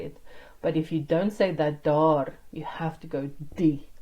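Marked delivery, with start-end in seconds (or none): 3.5-3.9 the word die given full emphasis; stress on DIE. Shown as a demonstration. Teacher telling learners how to replace daardie, emphatic die. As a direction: lean firmly on die. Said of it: "put the emphasis on the die".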